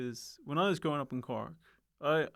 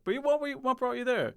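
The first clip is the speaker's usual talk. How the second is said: high-pitched; 9 semitones higher than usual. Real, not acted. Curious follow-up question.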